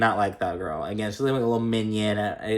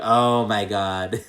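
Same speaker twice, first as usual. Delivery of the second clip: stunned oh my god; much slower than usual. Retold or imitated. Reacting to a funny speech.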